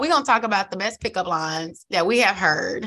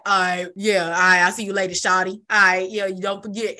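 switched-up smooth guy; 2 semitones lower than usual. Retold or imitated. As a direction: drop into a cool, casual player tone. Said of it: "he, like, changes to".

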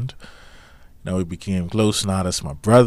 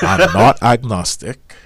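laughing; 3 semitones higher, 8 dB louder, slower than usual. Real, not acted. Laughing while denying.

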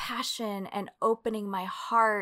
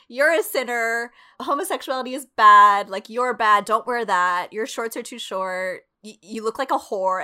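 mock preachy scold, louder; scolding church elder; 5 dB louder than usual. Church group scolding a twelve-year-old, mock stern. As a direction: lightly imitate a church lecturer.

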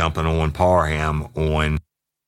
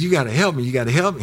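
high, repeated begging in imitation; mock crying plea; 10 semitones higher, much faster than usual. Crying kid begging Ken for help, mock tearful. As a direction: plead desperately in a put-on tearful voice. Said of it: "He was cr-, crying".

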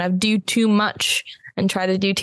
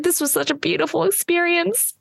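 gushing winner; 10 semitones higher than usual. Retold or imitated. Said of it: "They're like".

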